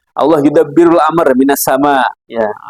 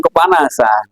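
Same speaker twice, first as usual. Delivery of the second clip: mock complaining; 7 semitones lower than usual. Preacher mimics people griping whenever it gets hot, mock complaining. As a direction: complain about the heat, playfully exaggerated. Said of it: "Iya, ngeluh terus berarti".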